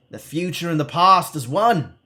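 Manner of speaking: high mystic calling down from above; a light call down to the ground; calling back. Acted. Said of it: "the mystic calls back to you".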